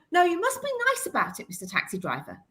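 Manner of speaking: a hint of a fussy church official correcting someone; prim church official. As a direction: gently tick them off in mock-official politeness. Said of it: "the C of E would be saying".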